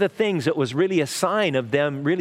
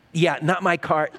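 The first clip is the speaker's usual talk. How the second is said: laughing. Real, not acted. Excuse to glaring driver.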